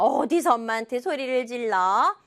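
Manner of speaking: scolding mother. Acted. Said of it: "그랬더니 엄마가".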